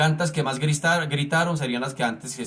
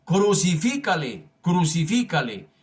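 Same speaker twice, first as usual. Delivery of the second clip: slow, emphatic cry of the crowd, only mildly raised. Acted. Crowd demanding crucifixion from Pilate, mildly crying out. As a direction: read it as a restrained crowd chant. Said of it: "volvieron a dar voces, diciendo".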